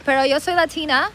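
mock a Miami gringa's Spanish accent; acento americano de Miami. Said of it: "el acento americano de aquí". (español agudo con acento gringo)

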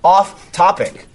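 upbeat sponsor tagline; ad read. Acted. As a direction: deliver it like a radio close. Closing ad read.

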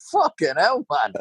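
high, incredulous curse; shocked exclamation. Retold or imitated. Telling a mate about his schizophrenic worker, shocked high exclamation. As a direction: blurt it out in disbelief.

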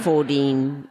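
"fourteen" with the T softened to a D; Australian-style "fourteen", no crisp T; muddy soft D. Shown as a demonstration. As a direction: say "fourteen" like "for-deen". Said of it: "soft D".

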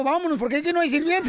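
fast, giggling punchline; laughing through it. Acted. Dad fleeing the ghost house, laughing. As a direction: rush the line, laughing.

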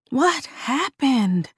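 high, slow, eerie question; eerie doll voice. Acted. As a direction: ask slowly like a creepy doll.

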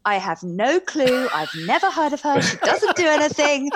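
a voice assistant mocking the speaker for her sons, laughing; snarky Alexa. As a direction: play a sassy Alexa brushing her off, laughing. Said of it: "And Alexa goes".

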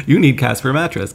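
light late-night ad pitch; infomercial voice. Pretend. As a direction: pitch it like a TV salesman. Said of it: "I'm putting on this infomercial voice".

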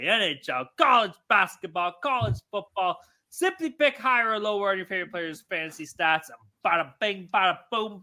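host shouting out the sponsor, hyped; hyped ad read. Acted. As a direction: sell it like a pumped-up podcast host. Reads sponsor ad.

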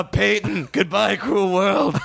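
slow, hammed-up tragic goodbye; melodramatic farewell. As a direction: wail it like a dying hero. Mock suicide farewell joke.

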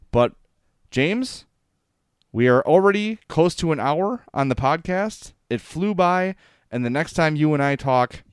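normal talking voice

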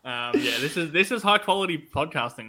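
rough, hoarse, coming and going. Real, not acted. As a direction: voice cracking from a sore throat. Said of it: "this tonsillitis voice".

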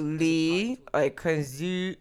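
slow, tentative mock German; attempted German accent. Shown as a demonstration. Trying German from an accent lesson, hesitant mock German. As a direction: feel your way into a fake German accent. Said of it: "They have a German".

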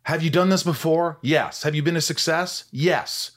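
brisk self-questioning; self-talk. Pretend. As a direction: coach yourself through the nerves. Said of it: "I talk to myself".

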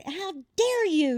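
high, hot retold "how dare you"; retold fury. Wife confronting her husband, a retold angry outburst. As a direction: throw it at him like you're livid.

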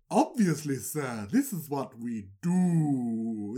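slow, knowing magician reply; lightly voiced self-assured sorcerer; smug wizard. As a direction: magicians reassuring the pharaoh, a touch smug. Magicians answer pharaoh.

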